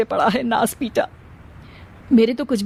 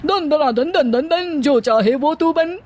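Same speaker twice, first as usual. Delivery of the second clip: a raised, chanted magical incantation; magic stone voice; 5 semitones higher than usual. Acted. Magic stone calls out to Pinky, raised chanted spell. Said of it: "जादुई पत्थर से आवाज सुनाई देती है".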